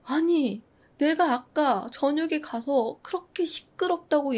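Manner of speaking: fuming in bed, half-shouting upward; retold fuming shout. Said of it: "천장을 보면서 소리쳤다고". (천장에 대고 가볍게 흉내 낸 고함)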